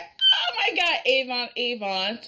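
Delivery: excited grandpa. Retold or imitated. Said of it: "And this is like".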